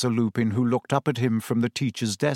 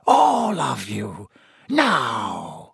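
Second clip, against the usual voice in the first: stern command; 3 semitones lower, much slower than usual. A narrator's reading. Snape commanding class.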